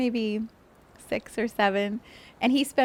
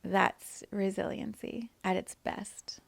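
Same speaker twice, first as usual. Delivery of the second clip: slow soft emphasis; 5 dB quieter, slower than usual. Real, not acted. Emphatic reflective point.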